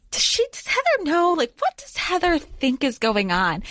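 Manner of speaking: high-pitched acted questioning; retold questioning. Jude asking Vivi what Heather knows, high retold questioning.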